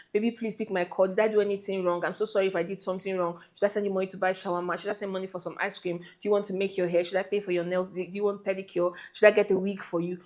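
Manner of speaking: soft, fast pleading boyfriend mock; begging boyfriend. Boyfriend begging girlfriend to pick his call, soft and pleading. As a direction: grovel quickly and softly. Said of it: "You start begging".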